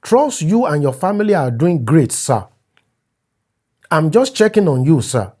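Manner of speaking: overly polite message read aloud; a hint of a fawning younger friend; reading a deferential message. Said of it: "November twenty-eight".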